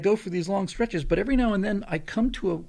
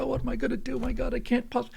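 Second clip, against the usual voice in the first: higher-pitched imitation of panicking; mock panic; 6 semitones higher than usual. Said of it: "I wasn't panicked".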